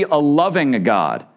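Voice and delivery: "loving" drawn out slowly for emphasis; stress on loving. Real, not acted. Preacher restating his point to the congregation, stress on "loving". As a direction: lean slowly on the word "loving". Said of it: "I'm emphasizing loving".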